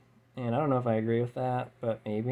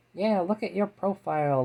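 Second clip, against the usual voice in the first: high voice; 7 semitones higher than usual. Retold or imitated. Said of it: "and a high voice of".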